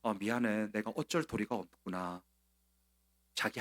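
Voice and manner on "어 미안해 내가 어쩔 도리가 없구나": quiet, sighing self-excuse, a bit quicker; soft resigned excuse. Acted. Pastor voicing King Darius's guilty excuse, soft and resigned. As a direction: murmur it like a guilty man excusing himself. 지금 이 뉘앙스가 느껴지세요?.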